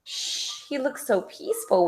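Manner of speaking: hushed whisper, barely any voice. A narrator's reading. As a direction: whisper so the sleeping boy stays asleep. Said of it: "whispered Cat".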